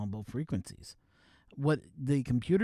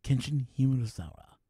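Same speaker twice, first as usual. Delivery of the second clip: movie intro voice; 3 semitones lower, 4 dB louder than usual. Shown as a demonstration. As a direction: announce it like an epic movie trailer, pausing between phrases. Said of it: "Do a movie intro".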